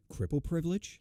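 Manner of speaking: asked in disbelief with a rising end; incredulous question. Retold or imitated. To the security guard, questioning in disbelief. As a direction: toss it back as a doubtful question. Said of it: "And my response was".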